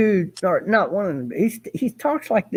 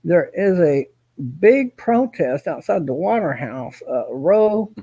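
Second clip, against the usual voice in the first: Kenneth as a reporter; 4 semitones lower than usual. Retold or imitated. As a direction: imitate his stiff reporter delivery, slowed down. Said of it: "If he had to be a reporter, he would sound like that".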